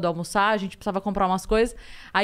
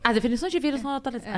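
scolding announcement; much faster than usual. Shown as a demonstration. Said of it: "Era quase uma bronca".

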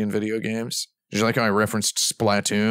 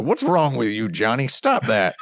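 mock scolding mom; 4 semitones higher than usual. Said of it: "his mom is like".

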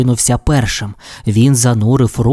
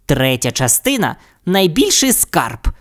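hissed; 3 semitones higher than usual. Acted. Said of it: "прошипів Сільвестр".

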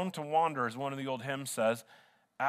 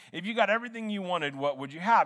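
quick, higher blurted question; 4 semitones higher than usual. Retold or imitated. Interviewer blurting the question at the agent, quick and higher. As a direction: let it tumble out fast and unplanned. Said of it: "he just blurted it out".

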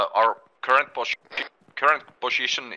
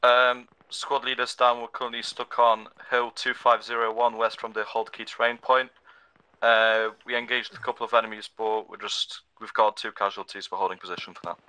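crackly military radio. Real, not acted. Squad report over game radio.

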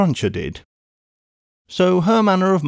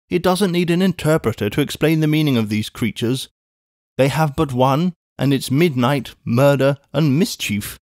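lightly raised brisk spinster voice; a brisk English housekeeper calling out; a hint of a bustling maid; Miss Pross.

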